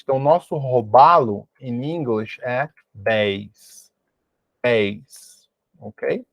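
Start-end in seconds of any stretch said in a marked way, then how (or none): 2.4-5.5 bass said like base, not like the fish word bas; low, careful model of bass rhyming with face; model pronunciation. Shown as a demonstration. Teacher models bass for robalo, careful and low. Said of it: "mas a pronúncia é diferente".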